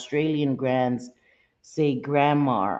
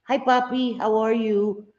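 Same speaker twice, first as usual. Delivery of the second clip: loving greeting; 5 semitones higher than usual. Shown as a demonstration. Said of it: "We say mommy and papi".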